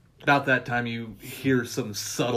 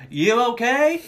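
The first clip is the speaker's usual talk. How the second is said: high, louder, laughing mimicry; high mock voice; 11 semitones higher, 6 dB louder, slower than usual. Friend echoing the movie line, high and laughing. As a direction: squeak it out like a cartoon hick. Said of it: "He's like".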